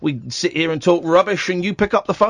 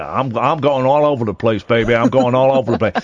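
put-on American accent; 10 semitones lower than usual. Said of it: "do an American accent".

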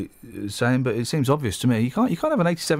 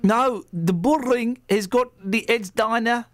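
mild Brummie; 7 semitones higher, slower than usual. Pretend. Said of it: "I'm doing it as best as I can".

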